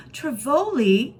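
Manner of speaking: high, slow, wondering question; amazed. A narrator's reading. Kirsty hearing her favourite place named, amazed. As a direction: marvel at the word.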